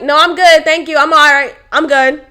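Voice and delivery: mildly annoyed, firm refusal; retold curt, spoken-up reply; speaking up, annoyed. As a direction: act out brushing off a coworker. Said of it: "I'm speaking up, like, I'm speaking like that".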